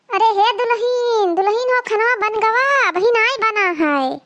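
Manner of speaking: nagging mother-in-law calling her daughter-in-law about the food; mother-in-law calling the bride. Acted.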